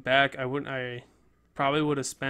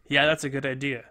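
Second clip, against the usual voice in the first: imitating an easy, louder yes; easy agreement; 7 dB louder than usual. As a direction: agree readily, as if approving on the spot. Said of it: "It wasn't always just like".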